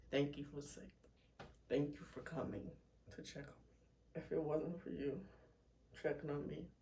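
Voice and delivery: choked up with tears; thanking a friend while crying. Real, not acted. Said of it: "let me stop all this crying".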